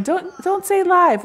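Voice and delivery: high-pitched, drawn-out retold yell; mock yell. Mom quoting John's objection to her viewers, mock yell. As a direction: imitate someone yelling across the room. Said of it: "John, he's yelling".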